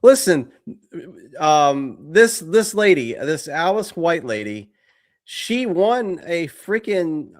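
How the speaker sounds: loud, high wrestler rant; wrestling promo. Pretend. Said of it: "That's a wrestling promo".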